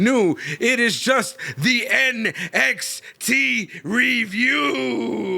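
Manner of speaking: showman's announcement; big top ringmaster. Pretend. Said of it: "it go a little something like this".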